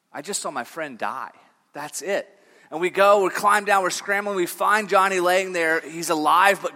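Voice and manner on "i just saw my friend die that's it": low, quiet, acted-out shock; subdued, deadpan retelling of shock; stunned aside. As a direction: drop the voice for a grim realisation. Stunned reaction to friend's fall.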